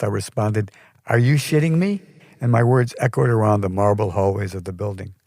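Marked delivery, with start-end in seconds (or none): 1.1-2.0 full blast. A narrator's reading. Artist yelling at the receptionist, outraged shout. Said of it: "Now at full blast".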